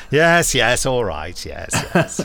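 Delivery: a mock-hurried actor's agreement; imitating David.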